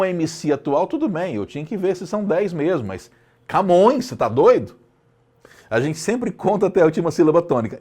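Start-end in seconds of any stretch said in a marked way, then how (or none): 2.9-4.8 louder, teasing "are you crazy"; playful incredulity; mock indignation. Real, not acted. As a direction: scold the class playfully, louder. Mock outrage about Camões.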